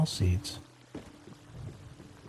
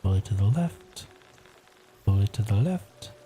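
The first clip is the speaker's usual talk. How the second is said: library whisper. Real, not acted. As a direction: whisper so the house stays asleep. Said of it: "I am whispering".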